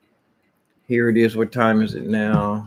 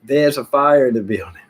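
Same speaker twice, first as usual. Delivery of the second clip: mock fire alarm call; urgent announcement; 3 semitones higher than usual. Shown as a demonstration. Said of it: "You would go like".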